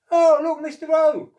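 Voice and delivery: high, loud, delighted call; excited cry. Acted. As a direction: shout it out thrilled to see the socks. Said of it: "cried Oscar".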